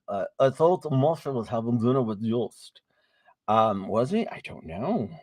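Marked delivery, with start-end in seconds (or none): 0.4-2.8 light imitation of a friend's accent; Big Brother's accent. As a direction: lightly put on his accent for the quote. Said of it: "I'm gonna say it in his accent".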